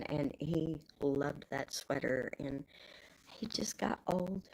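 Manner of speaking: slow, unvoiced whisper of grief; sad whisper. Real, not acted. Remembering her old dog Buster, sad slow whisper. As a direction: let the words fall away, slowly.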